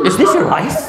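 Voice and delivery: imitated incredulous question; Kris Aquino. Celebrity questions pastor about wedding photo, mock astonishment. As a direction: mimic a celebrity's blurted astonishment. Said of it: "Ang lakas ng pagkasabi niya".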